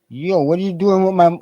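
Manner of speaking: high, loud protest over his money; outraged yell. Retold or imitated. Cop takes his money.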